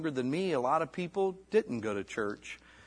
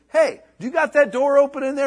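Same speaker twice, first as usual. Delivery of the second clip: imitating wife; 12 semitones higher, 10 dB louder than usual. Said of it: "She goes".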